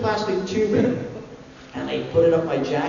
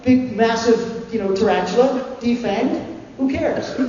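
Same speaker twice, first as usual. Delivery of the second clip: higher, airy fake confidence; brushing it off, higher and light; mock-breezy; 5 semitones higher than usual. Actor feigning calm to the spider wrangler, higher. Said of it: "And I go".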